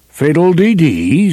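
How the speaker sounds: light southern belle voice; airy, dismissive belle; Scarlett O'Hara. A narrator's reading. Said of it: "said Scarlet".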